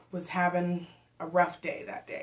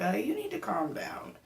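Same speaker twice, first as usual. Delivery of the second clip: put-on husky whispered aside from the boyfriend; imitating her man in a soft whisper; whispered quote; 3 semitones higher, 3 dB quieter than usual. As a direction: hush it like he's trying not to laugh. Boyfriend quoted telling her calm.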